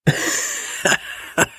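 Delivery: real, voiceless chuckling laugh; breathy run of chuckles; amused laugh. Real, not acted. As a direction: laugh at the whispered answer. Amused by the whispered reply.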